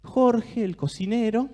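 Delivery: savouring, drawn-out storyteller voice; mouth-watering guided visualization; guided imagery. Acted. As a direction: paint the tray of food slowly so they can taste it. Guided imagery of a food tray.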